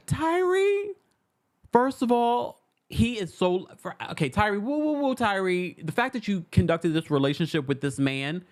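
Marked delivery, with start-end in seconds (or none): 0.1-5.8 excited hooting. Real, not acted. Excited reaction to Tyree.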